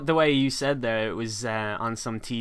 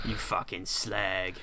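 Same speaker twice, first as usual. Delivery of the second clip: slow, drawn-out London insult; attempted London accent; 3 semitones lower, 4 dB quieter, slower than usual. Shown as a demonstration. Friend trying to copy his co-host's accent, slow cockney attempt. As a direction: try a London accent, stretching the words. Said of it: "can't do that".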